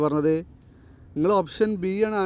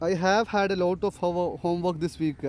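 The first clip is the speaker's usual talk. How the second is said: slow dictation; much slower than usual. Shown as a demonstration. Teacher reads example sentence aloud.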